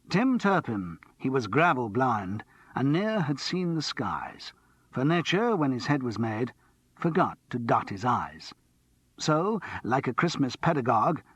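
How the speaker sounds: rehearsing a comic poem aloud; reciting comic ballad. A narrator's reading. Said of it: "began to recite".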